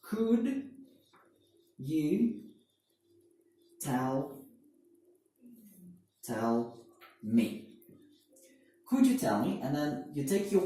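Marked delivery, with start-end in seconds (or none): 0.0-7.7 each word drawn out with long gaps; slow, spaced out. Shown as a demonstration. Teacher spells out the phrase for students, slowly. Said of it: "first you say the polite phrase".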